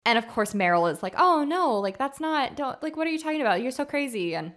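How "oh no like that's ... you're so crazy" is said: higher-pitched, brushing it off; retold dismissive wife. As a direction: imitate a wife waving away crazy talk. Retold wife dismisses husband's theory.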